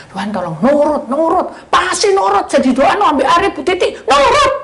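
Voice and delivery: high, loud, demanding mock prayer; bossy wrong prayer. Shown as a demonstration. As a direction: order God around like a child. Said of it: "Nah, itu dosa".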